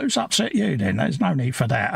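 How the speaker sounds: retold touchy comeback, pitch jumping up at the start; kicking off. Streamer misreading banter as a dig, kicking off. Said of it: "I start kicking off then".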